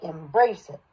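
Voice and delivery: low, grounded start on "Embrace". Shown as a demonstration. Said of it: "go a little lower on embrace".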